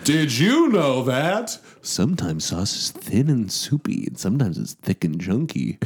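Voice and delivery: educational show host. Retold or imitated. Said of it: "Bill Nye the Science Guy".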